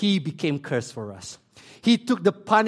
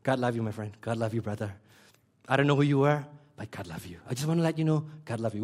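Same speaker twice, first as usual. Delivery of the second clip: mock cheap blessing; 7 semitones lower, 5 dB quieter, faster than usual. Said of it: "we throw the word love very cheaply".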